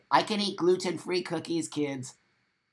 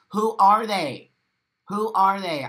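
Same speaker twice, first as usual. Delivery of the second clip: raised voice, high and loud; indignant demand; 4 semitones higher, 6 dB louder than usual. Real, not acted. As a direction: throw the question out as a challenge. Repeats demand about gatekeepers.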